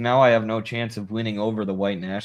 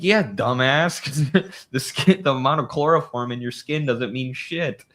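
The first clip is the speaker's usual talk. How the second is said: mock sarcastic retort; 5 semitones higher than usual. Sarcastic retort to imagined liberal.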